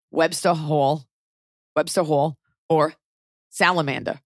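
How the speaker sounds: thick New York accent, R dropped; unhurried New York demo words. Shown as a demonstration. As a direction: say it like a native New Yorker. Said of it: "I have thick New York accents".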